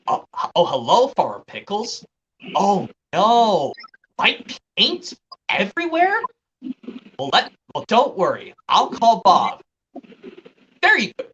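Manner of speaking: lightly acted kids' cartoon dialogue; Bob the Builder impressions. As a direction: quote the cartoon characters with swinging pitch. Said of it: "from season one of Bob the Builder".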